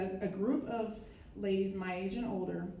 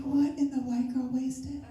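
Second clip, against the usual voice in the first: retold disbelief; 5 semitones higher, 5 dB louder than usual. Retold shocked reaction to the outburst.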